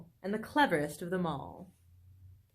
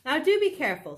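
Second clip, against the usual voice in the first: Missus Fox; 6 semitones higher, 5 dB louder, faster than usual. A narrator's reading. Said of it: "said Missus Fox".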